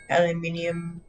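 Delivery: aluminum said as al-yuh-MIN-ee-um; Australian pronunciation. Shown as a demonstration. Streamer offering another way, aluminum said the Australian way, al-yuh-MIN-ee-um. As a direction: give aluminum its extra "ee" before the last syllable. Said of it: "However you wanna say it".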